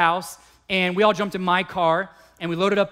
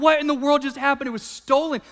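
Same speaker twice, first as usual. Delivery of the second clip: retold disbelief; 7 semitones higher, faster than usual. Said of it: "I was like".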